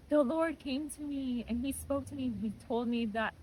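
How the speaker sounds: high voice easing down toward normal; tearful telling. Retold or imitated. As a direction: reenact sharing news through tears. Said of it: "I'm just in tears".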